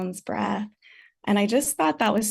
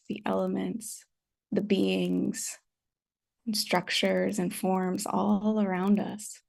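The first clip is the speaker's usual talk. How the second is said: unhurried meditation guidance with long pauses; calm, spacious meditation teacher's delivery; guided meditation. Real, not acted. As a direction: gently guide them to settle, leaving space between phrases.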